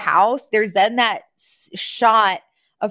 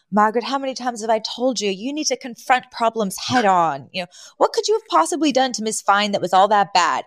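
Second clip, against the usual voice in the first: lightly voiced lecturing father; a hint of a dad scolding his daughter; Mister Sheffield; 2 semitones higher than usual. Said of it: "And he's literally like".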